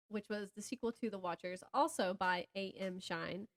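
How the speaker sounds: ordinary talk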